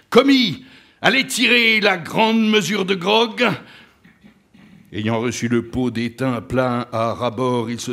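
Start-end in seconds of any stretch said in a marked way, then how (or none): 0.1-3.5 loud, high captain's command; called-out order. A narrator's reading. Ahab sending the steward for grog, commanding. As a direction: summon him across the deck.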